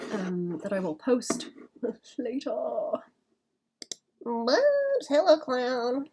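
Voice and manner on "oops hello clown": granny voice. Acted. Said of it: "lean into the granny voice".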